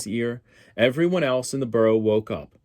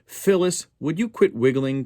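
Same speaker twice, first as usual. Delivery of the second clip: high, louder whiny brother; complaining; 7 semitones higher, 4 dB louder than usual. Acted. Phil Junior complaining at wiggling Phyllis, high whine. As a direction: whine at her to keep still. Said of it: "complained Phil Junior".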